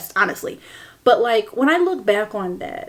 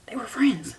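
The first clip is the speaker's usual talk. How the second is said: quieter airy whisper, dropping away; soft whisper; 6 dB quieter than usual. Real, not acted. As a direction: breathe They were friends softly.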